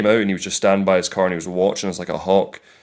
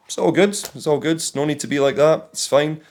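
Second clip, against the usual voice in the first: higher, breezy kill-them-with-kindness voice; imitating own sweet customer voice, pitched up; overly kind; 5 semitones higher than usual. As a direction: brush off rudeness with cheery politeness. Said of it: "I just hit people with fucking kindness".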